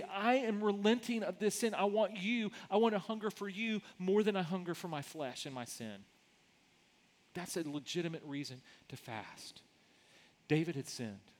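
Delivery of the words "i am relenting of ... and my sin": earnest prayer. Retold or imitated. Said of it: "seek God's face in repentance to say".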